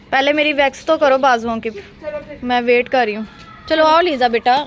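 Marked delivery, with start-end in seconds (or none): 3.7-4.6 calling out. Real, not acted. Calling granddaughter to leave.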